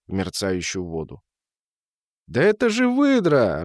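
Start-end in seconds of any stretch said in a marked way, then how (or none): 2.3-3.6 high-pitched outburst of recognition; sudden exclamation. A narrator's reading. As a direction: blurt it out, pitch leaping up. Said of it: "разом вырвалось у нас".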